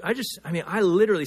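ordinary talk, nothing marked

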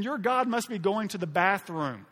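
loud, high sarcastic taunts; mocking. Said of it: "He's mocking them".

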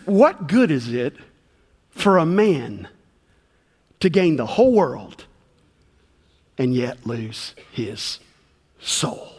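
slow, solemn reading of Jesus' words; solemn quote. Retold or imitated. Preacher quoting Jesus to the congregation, slow and solemn. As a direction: let the soul question sink in slowly. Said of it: "He says".

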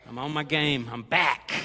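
punchy comeback announcement, loud on the last word; mock-confident boast. Preacher joking about tomorrow's diet comeback, loud mock confidence. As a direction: boast it, landing hard on the end.

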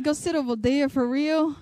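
mildly disbelieving repeat of the instruction; incredulous echo. Retold or imitated. Customer questioning where she was told to sit, mild disbelief. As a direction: echo it back as a reluctant question. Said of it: "so I'm like".

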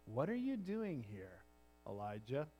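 God's question asked softly, barely above a breath; gentle whisper. Acted. God gently asks the hiding prophet, soft and hushed. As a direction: ask it like a still small voice. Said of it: "a gentle whisper".

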